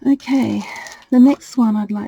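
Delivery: breathless, still catching breath. Real, not acted. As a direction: talk while recovering your breath. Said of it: "a little bit out of breath here".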